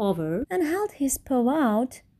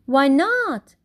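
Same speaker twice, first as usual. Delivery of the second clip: high, louder cheerful cry; 4 semitones higher, 4 dB louder than usual. Acted. The crowd cheering up at Kevin, high and loud. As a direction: cheer it out as a question. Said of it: "cried the Ruse with a super loud cheer".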